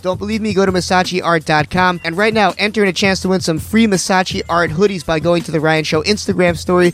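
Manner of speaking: loud, punchy radio ad; ad read. Acted. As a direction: sell it like a pitchman. Ad read for art site.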